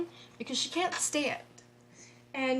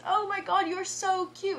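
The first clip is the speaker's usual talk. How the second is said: mock squeal; 7 semitones higher, 3 dB louder than usual. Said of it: "she grabs my face and goes".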